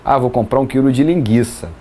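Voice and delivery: "linguiça" said lin-GHEE-sa, no w; hard g straight into ee in "linguiça"; U silent. Pretend. Imagined shopper buying a kilo, "linguiça" with silent U. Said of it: "o trema até na fala".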